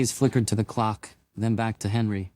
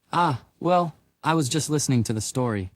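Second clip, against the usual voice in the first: stammering; 4 semitones higher than usual. Acted. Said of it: "he stammered".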